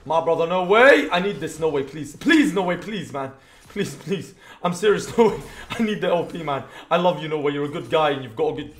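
loud, hammed-up pleading to a rival; mock begging. Streamer jokingly begs the enemy player to throw the game, pleading. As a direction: beg him like your life depends on it.

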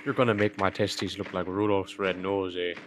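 hammed-up Canadian accent, eh at the ends; a jokey Canadian bit with eh tags; mock Canadian accent. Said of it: "Turns into an Indian accent at the end".

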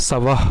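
সাবাহ ending in a puff of breath, no added vowel; visarga pronunciation. Shown as a demonstration. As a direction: let সাবাহ end on a released h. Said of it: "উচ্চারণ হবে কেমন?".

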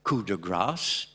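"coup de grâce" with a light English accent; drawn-out, lightly English-accented "coup de grâce"; slight English accent. Shown as a demonstration. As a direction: say "coup de grâce" slowly, faintly anglicised in English. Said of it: "avec un petit accent anglais quand même".

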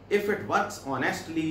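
very slow, word by word English reading; slow dictation. Shown as a demonstration. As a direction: read it out slowly for the class to follow. Reads English text slowly. (धीमी आवाज़ में पढ़ना)

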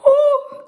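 high, loud "oh" of being overcome; mock emotional wail. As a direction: let out a theatrical tearful cry. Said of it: "I'm getting so emotional".

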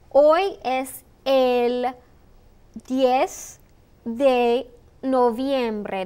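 very slow, spaced out for repeating; slow model phrase. Shown as a demonstration. Teacher modelling the date for students, very slow and spaced. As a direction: lay the date out word by word so learners can copy it. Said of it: "That's the way you say the date".

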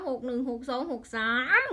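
worked up, last number stretched and rising; full of emotion. Real, not acted. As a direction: reel off the numbers with mounting feeling. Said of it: "พี่น้องว่าคือใส่อารมณ์คักเลย".

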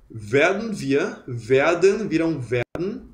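"werden" said "werdn", the E N swallowed; slow "werden" with the ending clipped to dn. Shown as a demonstration. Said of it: "se engole o E N".

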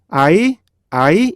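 "아이" run together with no stop; 분리 안 된 이중모음. Shown as a demonstration. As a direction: glide straight through "아이" unbroken. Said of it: "분리 안 하면 어떻게 돼요". ("아이"를 끊지 않고 이어서)

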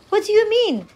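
put-on high-pitched, baffled boy; puzzled. A narrator's reading. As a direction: question it in puzzlement, pitched well up. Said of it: "The boy looked puzzled".

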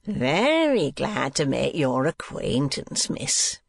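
slow, drawn-out oily greeting; lightly voiced schoolmaster, stretching his words; schoolmaster Squeers. Schoolmaster introduced to a young lady, slow drawling greeting.

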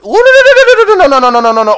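very high, loud frantic cries; real terror of dying in game; panicked no's. Real, not acted. Gamer about to die in a fight, frantic high pleading. Nearly killed again.

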